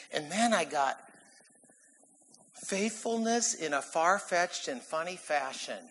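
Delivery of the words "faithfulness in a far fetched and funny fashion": measured tongue twister. Shown as a demonstration. Presents his alliterative sermon point.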